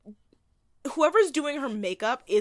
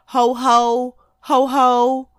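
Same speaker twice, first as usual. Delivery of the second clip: loud, hammed-up Santa laugh; 3 semitones higher, 8 dB louder, much slower than usual. Mocking the Santa bit in the movie, a loud jolly ho ho ho. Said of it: "while he says".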